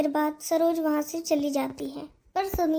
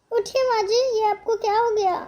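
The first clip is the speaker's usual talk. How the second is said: panicked plea; 7 semitones higher than usual. Acted. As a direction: cry out to wake her in panic. Second more urgent plea.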